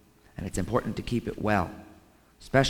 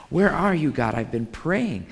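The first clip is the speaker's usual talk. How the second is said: loud, raised plea at the start, then easing; crying out to God; 6 semitones higher, 5 dB louder than usual. Acted. Preacher voicing someone crying out to God, pleading loudly. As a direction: act out a frustrated cry in prayer. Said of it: "you're just crying out to God".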